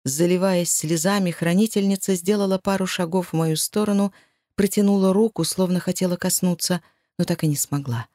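plain reading voice

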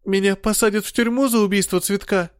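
выше, по-детски испуганно; спроси как напуганный малыш; детский испуг. Acted. Испуганный ребёнок Дэвид. (Дэвид боится наказания, испуганно по-детски)

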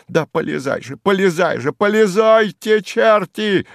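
high, loud, building howl; wailing yell. A narrator's reading. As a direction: scream at the peasant in despair. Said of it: "вопил он".

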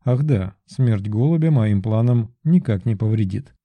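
ordinary delivery, nothing marked

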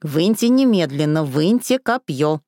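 mock hysterical plea. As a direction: beg hysterically to pull it out. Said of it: "зашлась в истерике Василиса".

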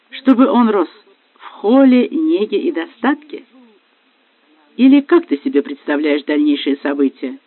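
mock her plans with hurt anger; husband sneering at his wife's plans, loud and bitter; bitter sarcasm. Husband bitterly mocking wife's future.

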